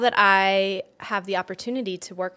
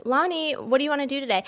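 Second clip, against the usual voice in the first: asking the dog; 6 semitones higher, faster than usual. Retold or imitated. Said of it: "So I'll be like".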